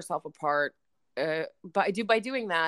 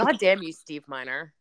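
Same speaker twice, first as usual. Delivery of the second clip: mock angry curse; 6 dB louder than usual. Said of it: "I was just really angry".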